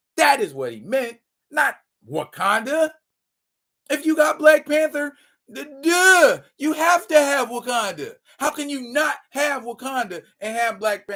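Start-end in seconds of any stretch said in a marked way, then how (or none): 3.9-11.2 raised yelling voice, higher pitched. Arguing about black panther and wakanda: yelling. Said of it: "I'm yelling".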